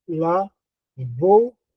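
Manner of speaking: lavoura stretched out, very slow. Shown as a demonstration. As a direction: draw the word lavoura out slowly. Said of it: "a palavra lavoura". (lavoura bem devagar, sílaba por sílaba)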